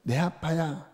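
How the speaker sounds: put-on soft, breathy child's whisper; tender whisper. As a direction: whisper it like a child clinging to dad. Child's heart voiced. (아빠 품에 안긴 아이의 속삭임)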